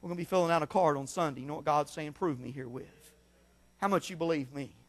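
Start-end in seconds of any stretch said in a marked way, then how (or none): 2.1-2.8 soft, low "Prove me herewith", almost under the breath; hushed quote. Acted. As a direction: drop the voice to a near hush. Quiet aside quoting God.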